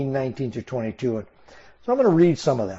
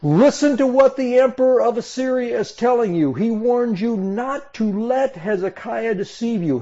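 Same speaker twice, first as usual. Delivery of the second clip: shouted proclamation; 7 semitones higher than usual. Acted. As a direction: shout it up at the people on the wall. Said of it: "stood up and shouted in Hebrew".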